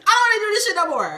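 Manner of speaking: high, fast, laughing-crying whine; hammed-up sobbing rant; mock crying complaint. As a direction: whine to God through laughing tears. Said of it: "And I'm crying".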